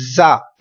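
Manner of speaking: जा cut short and harsh; the wrong quick जा; wrong short sound. Shown as a demonstration. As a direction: clip जा short. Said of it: "ऐसा ना हो".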